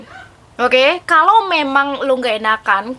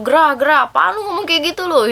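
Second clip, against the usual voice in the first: irritated friend; 3 semitones higher than usual. Retold or imitated. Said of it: "kayak kecacing kepanasan".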